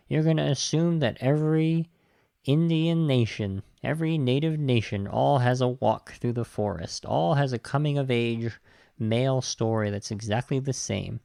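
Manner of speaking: dry mock agreement; sarcastic tone, as if it were obvious. Real, not acted. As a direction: lay on the sarcasm. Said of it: "I'm saying this sarcastically".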